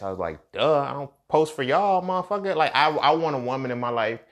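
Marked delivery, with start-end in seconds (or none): 0.5-2.6 mock-dumb "duh", rising scorn; sarcastic. Clapping back at the dude, sarcastic. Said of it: "me and my sarcastic ass".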